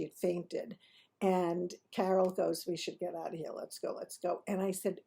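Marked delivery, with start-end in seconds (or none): 2.7-4.4 soft, low murmured aside; hushed urging. Retold or imitated. Friend wanting to slip out after the collapse, hushed urging. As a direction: urge it under your breath.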